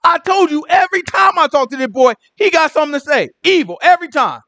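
very high, whiny told-you-so; exasperated king. Retold or imitated. Ahab griping to Jehoshaphat, very high and whiny. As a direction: complain in a high, squeaky voice.

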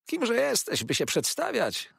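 high indignant yell; shrieked. A narrator's reading. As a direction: bark the challenge at the stranger. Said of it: "wrzasnął Uriah".

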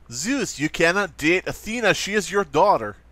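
mock Eastern European Greek god; lightly acted Eastern European accent. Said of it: "acted out by all Eastern European pickup artists".

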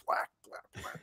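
whispery, voiceless splat noises; quiet repeated splat sound effect; mock pie splats. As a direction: imitate pies smacking into your face. Imitating pies hitting him mid-sentence.

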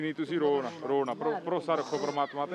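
calm, soothing reassurance; tender plea to stop crying; gentle consoling. Real, not acted. Reporter consoles a weeping woman.

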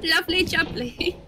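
put-on British accent. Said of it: "insult people in British accent".

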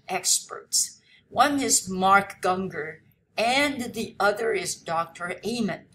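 slow, deliberate English reading; read-aloud lesson text. Acted. Teacher reads the passage to students, slow read-aloud. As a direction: read it out slowly for language learners.

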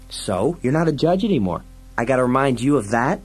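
quick, high-pitched retort; cheeky, indignant sidekick. Acted. Fergie reminds Dredd he's no judge, quick and high. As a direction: throw it back at him fast.

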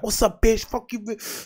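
a hint of her sudden switch to nasty; mock snapping girl. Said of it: "And then suddenly she snaps".

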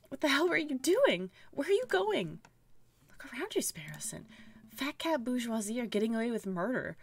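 angry, disillusioned partner snapping back; bitter Falcon. Acted. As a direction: throw him the key in disgust. Player voices angry Falcon character.

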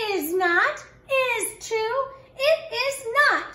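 put-on high, loud childish shouting match. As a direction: shout it back like a stubborn kid. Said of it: "shouted Ruthie".

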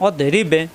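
অদে রিবে with the ব bounced thick; heavy end qalqala. Shown as a demonstration. Teacher to viewers, heavy qalqala at the verse end. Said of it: "এখানে মোটা হবে".

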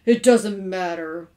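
loud, slow lament; hammed-up gloom; mournful. A narrator's reading. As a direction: drag it out mournfully. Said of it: "said Mister Carmody mournfully".

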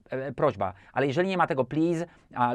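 usual speaking voice

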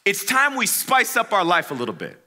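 high, rallying call; rally the boys with mock gusto; hyped Tyler. Tyler rallying the boys, high and pumped. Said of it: "He goes".

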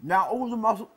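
chewing while talking; mouth full. Pretend. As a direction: talk through a mouthful of toffee. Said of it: "sorry, I'm still chewing".

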